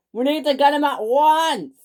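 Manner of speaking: high, loud urgent order; the boss screaming an urgent order to catch the diesel. Acted. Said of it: "screams Topham Hatt".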